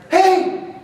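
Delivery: high, curious question; puzzled passenger. Retold or imitated. You in the friend's car, high puzzled question. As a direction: ask it like you have no idea. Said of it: "First words in your mouth".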